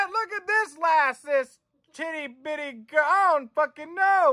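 high put-on cooing; silly high voice. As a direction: coo at it in a silly voice. Gushing over girl card.

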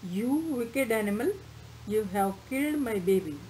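read-aloud mock hysteria; mild hysterical scream. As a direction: hurl the blame at the animal, a touch hysterical. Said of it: "she screamed hysterically".

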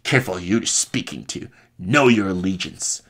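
voiced-up, commanding warning; firm retort. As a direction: throw the warning back harder.

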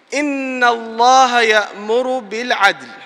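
rapid chanted Quran verse; quick recitation. Acted. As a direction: recite the verse swiftly in Arabic.

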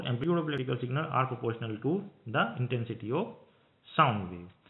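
reads the definition word by word, very slow; slow dictation. Acted. Teacher dictating a definition to students, very slow and measured. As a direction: spell it out slowly so students can copy it down.

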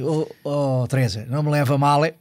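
lightly voiced stately old professor, slow; slow, measured lecturing tone of the old professor; Hermano Saraiva impression. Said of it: "e ele assim". (imitação leve e lenta do professor Hermano Saraiva)

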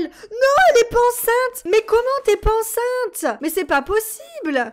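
high, loud outraged wail; loud high wail of disbelief; despairing outcry. Real, not acted. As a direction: cry out in disbelief. Pregnancy test fails again.

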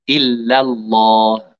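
إلا الله slow, doubled l of إلا held firmly; correction. Shown as a demonstration. Teacher correcting a student's recitation, slow and firm. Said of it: "إلا، إلا".

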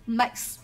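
"Makes" as one syllable ending in s; final s sound. Shown as a demonstration. Teacher repeats the answer word for students, final s sound. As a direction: say "Makes" clearly with a plain final s. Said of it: "chúng ta sẽ phát âm là s".

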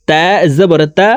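তা said with a thin, light t; thin letter. Shown as a demonstration. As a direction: keep the t of তা light. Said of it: "তা পাতলাভাবে উচ্চারণ করে পড়তে হবে".

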